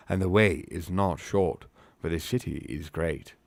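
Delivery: lightly declaimed elf speech in put-on accent; Haldir. Elf guide directing the company round the city, accented. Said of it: "to say in this accent".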